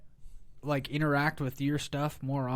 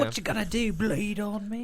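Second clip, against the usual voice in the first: Black Knight; 7 semitones higher than usual. Acted. Monty Python Black Knight quote.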